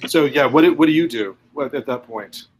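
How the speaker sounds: choppy audio dropping out; broken-up call audio; audio cutting out. Real, not acted. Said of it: "my audio keeps cutting out".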